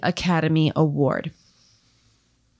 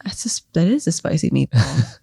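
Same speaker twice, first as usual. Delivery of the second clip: whispered catchphrase. Pretend. Echoing the spicy meatball catchphrase.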